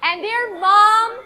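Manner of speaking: slow, sing-song once-upon-a-time telling; storytelling. Acted. Teacher opens the fish story for the class, slow and sing-song. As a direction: draw the class into the tale slowly.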